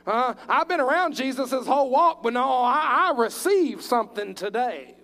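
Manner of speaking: the healed woman realizes aloud, loud and thrilled; excited realization. Acted. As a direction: cry out that something changed today. Woman voiced realizing healing.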